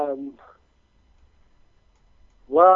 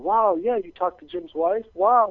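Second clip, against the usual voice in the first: higher, excited gushing callers; mock excited callers; 4 semitones higher, slower than usual. Retelling gossiping callers, imitating their excited surprise. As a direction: gush like an amazed fan. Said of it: "people saying".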